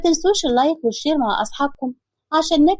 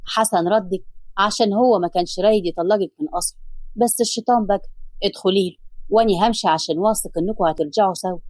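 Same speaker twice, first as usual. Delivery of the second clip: lower, lightly voiced kind man; calm lower male voice; man's voice; 5 semitones lower than usual. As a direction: speak gently as the older man.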